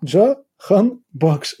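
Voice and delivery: «Джа, Хан, Бакш» in separate chunks, a pause after each; name split up. Shown as a demonstration. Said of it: "І тоді простіше все стає". («Джа, Хан, Бакш» по частинах, з паузами)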